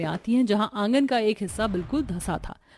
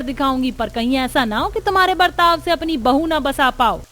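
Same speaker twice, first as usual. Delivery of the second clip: defiant challenge; 3 semitones higher than usual. Acted. Mother challenges rival sister-in-law.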